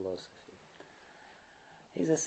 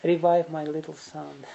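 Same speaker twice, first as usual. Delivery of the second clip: retold tearful plea; 5 semitones higher than usual. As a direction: lightly imitate a weeping mother's plea. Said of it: "She's crying and crying and crying".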